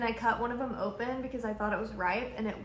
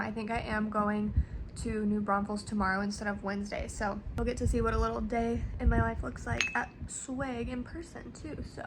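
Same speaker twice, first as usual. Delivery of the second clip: talking with a mouthful of candy; chewing while talking; mouth full; 4 dB quieter than usual. Real, not acted. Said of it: "I have a true fru in my mouth".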